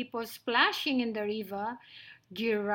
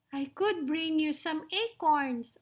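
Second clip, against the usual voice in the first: higher, eager mouse voice; little mouse, eager; 5 semitones higher than usual. Acted. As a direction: offer help as a tiny mouse.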